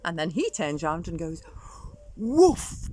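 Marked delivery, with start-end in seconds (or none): 2.2-2.9 louder, higher woof; big-voice woof. Acted. Dog skeleton turning on skeletons, big loud woof. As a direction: bark it big to scare them. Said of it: "in a big voice".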